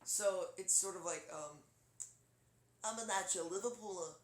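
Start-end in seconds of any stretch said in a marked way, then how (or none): 2.8-4.1 lightly done Liverpool accent, slightly raised; cartoon take on a Liverpool accent. Shown as a demonstration. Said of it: "a little bit of a famous musician".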